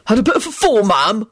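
politely solicitous question; courteous paramedic. A narrator's reading. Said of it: "senior paramedic asked politely".

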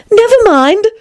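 high-pitched reassurance; soothing. A narrator's reading. Alice calming the Tiger Lily, soothing. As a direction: gently sing it out, pitched high. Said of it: "said in a soothing tone".

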